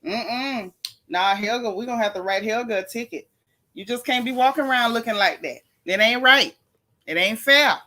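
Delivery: mock stern scolding; gentle teasing. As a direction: pretend to write her a ticket. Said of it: "I'm just messing with you".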